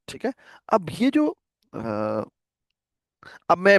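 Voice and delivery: ordinary talk, nothing marked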